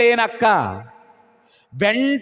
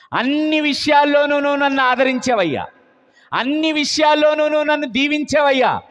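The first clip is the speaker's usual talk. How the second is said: 1 pleading Abraham; 3 semitones higher than usual. Acted.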